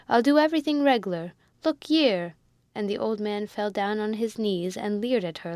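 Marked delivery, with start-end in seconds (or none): 0.1-2.3 eager. Acted. Old man pleading, kneeling.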